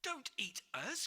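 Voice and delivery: put-on a boy begging not to be eaten; frightened cry. George to the giant, frightened cry. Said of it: "cried George".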